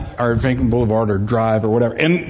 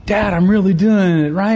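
higher-pitched, thrilled imitation of a son; excited boy; 6 semitones higher than usual. Son proudly tells his dad he's really riding, excited. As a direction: play an excited kid showing Dad. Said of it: "he's getting all excited".

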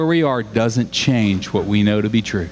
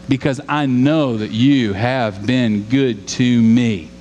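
slow reverent read; 3 semitones higher than usual. Shown as a demonstration. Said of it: "Can I do it again?".

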